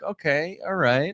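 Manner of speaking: imitated noncommittal, rising all right; wary acceptance. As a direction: play a repairman politely hiding judgment. Acting repairman reacting to the bed.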